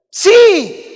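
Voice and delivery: preacher answering his own question; emphatic yes. Real, not acted. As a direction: hit it with full conviction. Emphatic affirmation.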